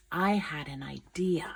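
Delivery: hushed, secretive whisper; excited whisper. A narrator's reading. Narrator sharing a secret plan with listeners, whispering.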